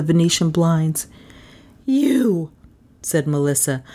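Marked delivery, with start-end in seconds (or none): 1.8-2.5 high, drawn-out accusing word; angry accusation. Acted. Melissa woken by Carstairs, angry. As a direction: stretch it out with rising menace.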